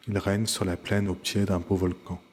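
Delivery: "plaine" runs straight into "au", no final E; silent E in "plaine". Shown as a demonstration. Teacher shows the E before a vowel, "plaine au" without E. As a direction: link "plaine au" as plè-no. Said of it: "on ne prononcera pas le E de plaine".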